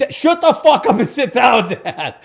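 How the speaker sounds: loud, high, drawn-out mock yell; imitated yell. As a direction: shout your father down, hammed-up. Son yelling his father down.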